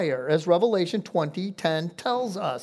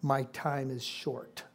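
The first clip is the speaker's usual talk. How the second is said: soft and slow, dropping far below the speaking voice; retold faint whisper; 8 semitones lower, 12 dB quieter, slower than usual. Preacher recalls a demon leaving a counseling client, soft and slow. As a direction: let it fade, slow and much softer. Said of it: "said the words in a very faint whisper".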